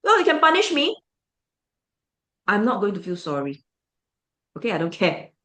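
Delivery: mock defiant teen voice. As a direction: toss it off like a rebellious teen. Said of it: "This is what she thinks".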